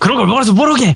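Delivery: put-on high, shrill-pitched angry old woman scolding yell.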